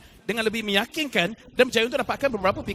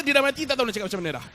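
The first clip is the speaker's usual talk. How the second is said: laughing; 4 semitones higher, much faster than usual. Real, not acted. Player dies mid-sentence.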